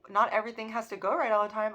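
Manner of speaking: hurried, amazed restating; incredulous repeat. Retold or imitated. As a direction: echo it back, astonished. Repeats message in disbelief.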